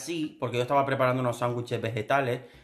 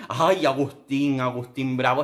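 exasperated sigh; 4 dB louder, slower than usual. Real, not acted.

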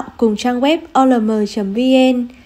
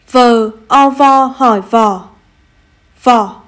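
slow spelling then reading. Shown as a demonstration. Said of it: "đánh vần và đọc trơn như sau".

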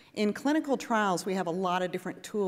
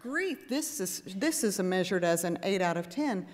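inner disbelief. Retold or imitated. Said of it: "In my head, I'm going".

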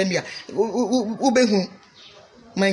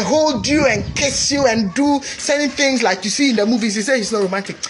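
raised-pitch, insistent sermon delivery; emphatic preaching; 4 semitones higher than usual. Real, not acted. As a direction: press the point on the congregation. Emphatic teaching on marriage.

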